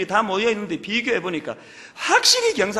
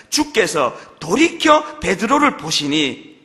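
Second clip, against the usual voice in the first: slow scripture reading; 4 semitones lower, 4 dB louder, slower than usual. Shown as a demonstration. Scripture read slowly.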